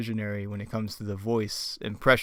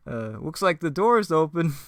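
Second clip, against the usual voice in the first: high, louder cartoon slacker; Shaggy; 6 semitones higher, 5 dB louder, slower than usual. Shaggy telling Fred about the door, high impression. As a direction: answer in a squeaky put-on voice. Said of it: "back to Fred and Shaggy".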